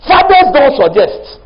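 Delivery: Fathers don't suggest, drawn out slowly; slow emphatic. Shown as a demonstration. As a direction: lay each word down slowly. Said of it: "preaching emphasis".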